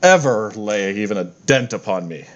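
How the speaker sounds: grand, slow, self-satisfied deity; lightly voiced pompous war god; boastful god voice. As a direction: announce yourself as an unbeatable god. Fitander continues his boast.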